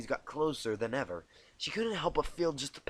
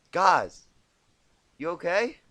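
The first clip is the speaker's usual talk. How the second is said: note of concern; 5 semitones higher, 9 dB louder, slower than usual. Acted. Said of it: "The note of concern in Dash's voice".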